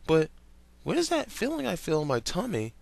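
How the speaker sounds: put-on high, innocent boyish wonder; Stephen's voice. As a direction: ask it like a naive boy. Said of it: "Stephen then looked down".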